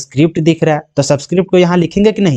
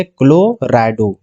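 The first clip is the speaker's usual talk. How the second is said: slow dictation; 5 semitones lower, much slower than usual. Shown as a demonstration. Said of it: "तो यहाँ पे क्या लिखेंगे".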